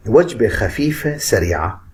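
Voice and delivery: slow mnemonic. Shown as a demonstration. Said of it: "مثلًا لو قلنا".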